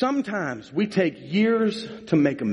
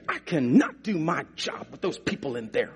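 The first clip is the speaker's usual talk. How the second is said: mock-exasperated complaint meant to be overheard; mildly fed-up nurse, word by word. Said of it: "And the nurse gets mad".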